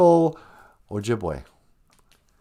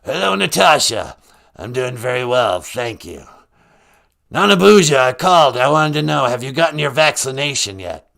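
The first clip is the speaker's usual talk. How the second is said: louder, official-sounding caller; a mock health official checking in; Doctor Fauci; 5 dB louder than usual. As Doctor Fauci, he asks the host about vaccination, louder. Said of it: "Doctor Fauci".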